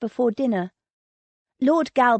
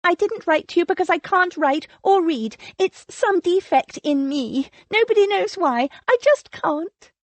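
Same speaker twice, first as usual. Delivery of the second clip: rushed, higher, strained confession; 9 semitones higher, 4 dB louder than usual. A narrator's reading. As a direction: blurt it out all at once. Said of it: "forced the words out in a rush".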